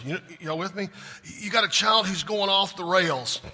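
loud, rising preacher's build; full-force pulpit preaching; fervent preaching. Real, not acted. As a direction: preach it hard to the congregation.

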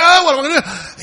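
loud, high mock panic, pitched well up; panicked cry. Believer in James's day panicking, loud and high.

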